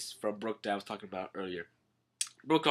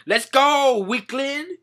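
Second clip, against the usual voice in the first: high, raised comic command; rallying call; 12 semitones higher, 6 dB louder, slower than usual. Retold or imitated. Pirate hurries the timid princess, rallying call. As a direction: call out to get moving.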